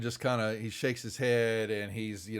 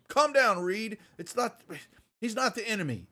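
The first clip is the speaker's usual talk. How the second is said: calming Johns; 11 semitones higher, 4 dB louder than usual. Acted. Johns restrains Reed.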